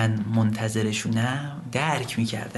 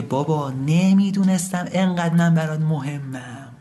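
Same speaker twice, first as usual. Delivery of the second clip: restrained lament; 4 semitones higher than usual. Acted. Son tells his dead father of his regret, restrained lament.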